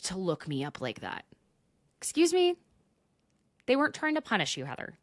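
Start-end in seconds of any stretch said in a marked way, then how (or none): 2.0-2.5 indignant. Real, not acted. Outraged reply to quote.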